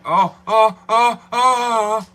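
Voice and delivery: loud high squealing oh oh; loud high excited oh oh; excited squeals. Real, not acted. Squealing reaction in car.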